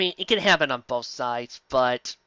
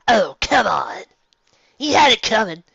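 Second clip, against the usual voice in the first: mock villain retort; 5 semitones higher, 7 dB louder than usual. Villain Envy answers back.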